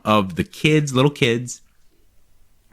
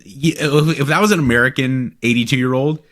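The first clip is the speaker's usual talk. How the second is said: ordinary talk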